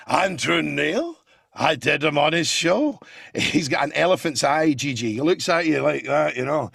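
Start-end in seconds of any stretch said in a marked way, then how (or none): 0.1-3.0 Andrew Neil impression. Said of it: "And Andrew Neil, come on".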